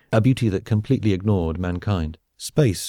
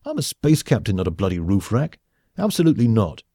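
indignant refusal; 2 semitones higher than usual. Acted. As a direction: refuse as if it is beneath your rank. Captain refusing to go on roof.

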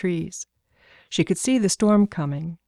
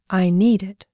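lightly voiced insistent little girl, louder; a child's emphatic claim; declaring little girl; 5 dB louder than usual. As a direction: declare it firmly, like a small child. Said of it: "she declared".

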